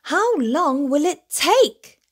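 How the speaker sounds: whiny question. A narrator's reading. Little bear complaining to Daddy about the long walk, slow and whiny. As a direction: drag it out impatiently. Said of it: "complained Little Bear".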